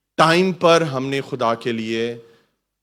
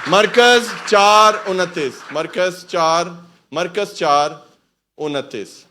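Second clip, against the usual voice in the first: loud, drawn-out announcement, word by word; slow repeated reference; 3 semitones higher, 6 dB louder, much slower than usual. Real, not acted. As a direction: stretch out the verse number so all can follow. Repeats verse slowly for finding. (ٹھہر ٹھہر کر، اونچی آواز میں حوالہ)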